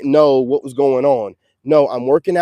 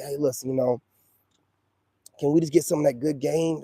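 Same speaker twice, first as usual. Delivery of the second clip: mock humble ask; 6 dB quieter than usual. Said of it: "humble yourself and be like".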